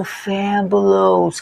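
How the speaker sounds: slow fabulous ending in a short us. Shown as a demonstration. Teacher fixing the ending of fabulous. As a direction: end fabulous on us. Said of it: "a pronúncia correta é us".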